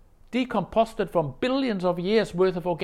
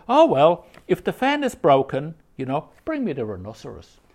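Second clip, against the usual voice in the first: louder, emphatic mock challenge; challenging; 8 dB louder than usual. Master challenging his attendant, loud and pointed. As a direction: throw down the challenge.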